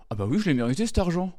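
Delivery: a spoiled heir purring over his money; smug rich kid. Retold or imitated. Comic mocks rich heirs, smug and high. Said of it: "Et ils étaient là".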